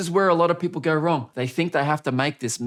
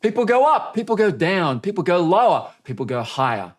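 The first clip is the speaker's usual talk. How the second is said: going up in pitch on the varied take; 4 semitones higher than usual. Shown as a demonstration. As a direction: swing the voice around the words. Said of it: "That's not as interesting as".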